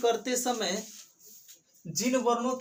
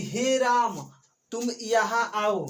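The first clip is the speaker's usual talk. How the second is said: calling out; slower than usual. Shown as a demonstration. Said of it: "ज़्यादा जोर देकर चिल्लाकर बुलाएंगे ना".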